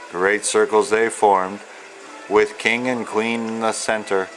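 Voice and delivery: steady, rhythmic read-aloud of rhyming verse; reading to children. Acted. Author reading his picture book to young children, rhythmic storyteller voice. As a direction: lilt through the rhymes like a bedtime book.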